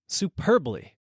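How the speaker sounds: high, elated exclamation; excited. A narrator's reading. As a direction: cry it out in delight. Rising on bucket.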